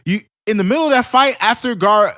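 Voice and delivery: excited fan. Real, not acted. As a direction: gush about the best part. Excited about favorite part.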